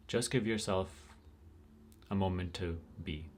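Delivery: unhurried guidance with long pauses between phrases; guided meditation. Real, not acted. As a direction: let each phrase settle before the next.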